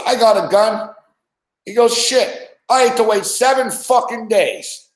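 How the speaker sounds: imitating a mad buddy griping he had to wait; mad gun owner. Retelling the gun buddy's complaint, hammed-up anger. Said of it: "He was mad, man".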